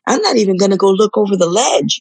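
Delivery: a sudden high squeal on hell no, then settling; scared refusal. Retold or imitated. Remembering the cliff, she squeals her refusal to Rob, mock scared. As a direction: recoil from the cliff edge in mock fright.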